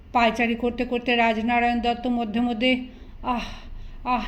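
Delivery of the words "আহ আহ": groaning ah, ah as if stung; pained groans. A narrator's reading. Restless father pacing, groaning as if scorpions sting him. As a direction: let out two short pained groans. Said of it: "শব্দ করতে লাগলেন".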